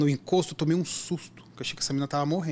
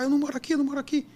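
retold yelling; 9 semitones higher, much faster than usual. Drugged girl repeats her denial, high mock yell. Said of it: "Começou a gritar, gritar".

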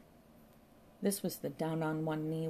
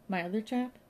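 baffled echo, raised and louder; mildly thrown, rising at the end; 5 semitones higher, 5 dB louder than usual. A narrator's reading. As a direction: repeat it as a puzzled question. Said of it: "made a baffled face".

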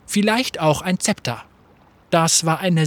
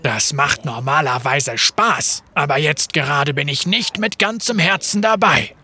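loud sulky explanation; 2 semitones lower than usual. Acted. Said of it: "erklärte er laut".

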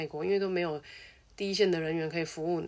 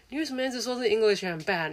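higher, louder baffled foreigner voice; puzzled foreigner; 5 semitones higher, 5 dB louder than usual. Retold or imitated. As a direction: sound genuinely confused by the apology. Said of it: "然后外国人就觉得". (外国人困惑地提高音调追问)

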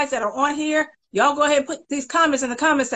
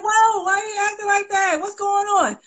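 quoting the guy; 10 semitones higher than usual. Retold or imitated. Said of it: "He's like".

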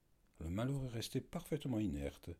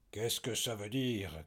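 slow, louder shouted question; furious cry; 3 semitones higher, 4 dB louder than usual. Acted. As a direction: shout it out in rage. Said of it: "cria-t-il". (cri furieux, lent)

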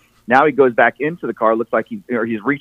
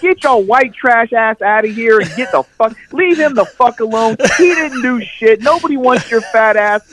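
much higher, louder mock cashier yelling; hammed-up cashier throwing them out; tough cashier lady; 10 semitones higher, 3 dB louder than usual. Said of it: "She pushes fat girl".

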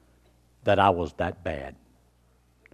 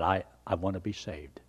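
softer whisper, barely voiced; a hushed, broken plea; tearful whisper; 3 semitones lower, 6 dB quieter than usual. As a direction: whisper it as if through tears. Retelling crying to father-in-law.

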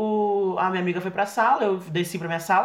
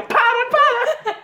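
"Para, para!" agudo, arrastado, no meio da gargalhada; rindo sem parar. Retold or imitated. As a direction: implora entre risadas, bem mais alto e agudo. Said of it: "E eu ria". (pedindo à orientadora que pare, rindo sem controle)

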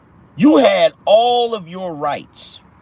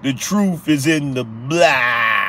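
Bill Cosby; 4 semitones lower, slower than usual. Retold or imitated. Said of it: "In my Bill Cosby voice".

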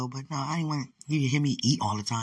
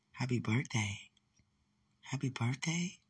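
soft, wondering birthday wish; hushed wonder; 8 dB quieter, slower than usual. Real, not acted. Telling the viewer what God showed her, in awe. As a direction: murmur it in quiet awe.

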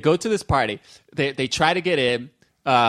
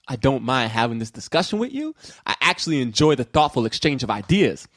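lower, measured politeness; calm; 5 semitones lower than usual. Acted. Fan quoting the movie's drug dealer to co-hosts, calm. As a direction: deliver it calmly, as a reasonable man would. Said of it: "he says it so calm".

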